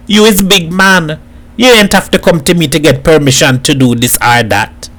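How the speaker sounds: lightly voiced Trinidadian elder friend; mildly exasperated advice to a friend; firm, exasperated Hat. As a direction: reason with him in Trinidad dialect. Hat reasons firmly with Edward.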